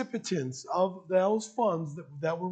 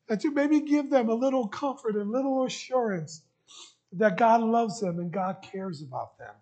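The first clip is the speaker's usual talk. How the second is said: emotional; 2 semitones higher than usual. Real, not acted. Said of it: "I'm sorry I'm a little emotional this morning".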